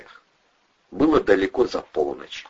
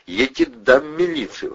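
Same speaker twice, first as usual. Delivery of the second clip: terrible growl; 9 semitones higher, 4 dB louder than usual. A narrator's reading. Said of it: "рычал Андрей страшным голосом".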